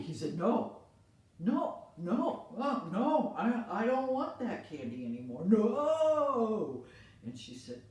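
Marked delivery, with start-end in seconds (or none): 0.4-6.8 firm refusal. Acted. Boy refuses candy.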